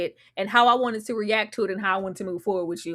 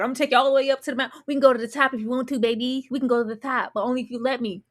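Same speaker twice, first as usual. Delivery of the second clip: smooth seducer impression; faster than usual. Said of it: "'cause he playing this out".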